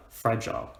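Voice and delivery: "fragile" with the weight on "fra"; stressed "fra", unstressed "gile" in "fragile"; stress on the first syllable. Shown as a demonstration. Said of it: "we stress the fra".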